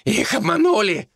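monk shrieking in protest; shrieked. A narrator's reading. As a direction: screech it in outrage. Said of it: "заверещал он".

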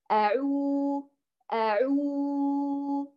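أعو held very slowly, lips fully rounded; correct waw model. Shown as a demonstration. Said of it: "بضم الشفتين ضمًا كاملًا".

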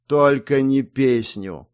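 slow, drawn-out moan; a dragged-out groan of protest; groaning plea. A narrator's reading. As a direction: beg wearily to be spared. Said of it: "простонал Экхард".

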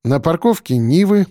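usual speaking voice

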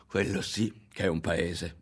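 slow, savoured exclamation of "Quello sì che è un paese"; drawn-out boast about America; exclaimed. Acted. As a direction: dwell on "paese" with relish. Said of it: "esclamò".

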